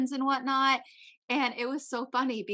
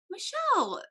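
retold reproach; 11 semitones higher than usual. Retold reproach to her friend.

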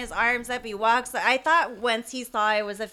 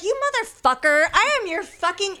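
higher, louder, laughing mock rant; mock outrage; 11 semitones higher, 7 dB louder than usual. To the younger driver, laughing hammed-up fury. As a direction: ham up the furious elder.

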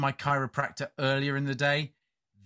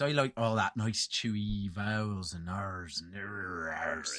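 mock Southwest accent; 7 semitones lower, 6 dB quieter than usual. Shown as a demonstration.

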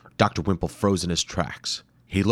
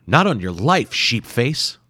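louder, higher defiant retort; defiant hero; 4 semitones higher, 5 dB louder than usual. Acted. Hero taunting the warrior, loud and defiant. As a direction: taunt the beast. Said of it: "Doctor Hayabusa said".

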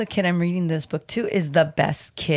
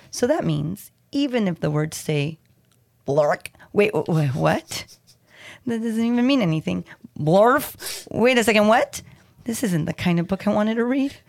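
mock surprise. Reader protests the silly text.

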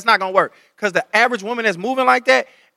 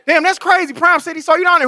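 higher, livelier acted surprise; replayed casual reaction; 5 semitones higher than usual. Boyfriend redoes telling her she was seen, higher-pitched and chatty. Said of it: "No, but rewind it".

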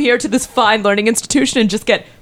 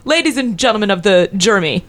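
passionate closing argument. Pretend. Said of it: "he just goes".

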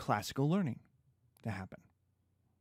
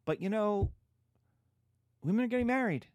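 higher, boastful suitor voice; mock Paris, boastful; 3 semitones higher than usual. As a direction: brag like a self-styled stud. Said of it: "And Paris is like".

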